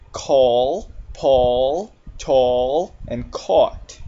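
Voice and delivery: "Call, Paul, tall, and caught" with an open aw vowel; long vowel examples. Shown as a demonstration. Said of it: "it makes the long A".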